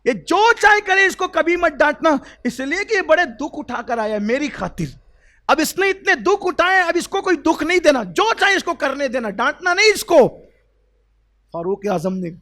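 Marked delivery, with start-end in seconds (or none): 0.0-1.1 much higher and louder, stress on چاہے; impassioned cry. Acted. Prophet pleading with Umar, high and loud. Repeated, heightened. 1.1-10.3 higher and louder, heartfelt; impassioned pleading. Acted. Prophet urging Umar, high and impassioned.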